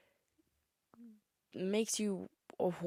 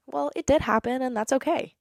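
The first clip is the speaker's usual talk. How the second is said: bright reassurance; 6 semitones higher, 7 dB louder than usual. Retold or imitated. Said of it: "I like to think of it instead as".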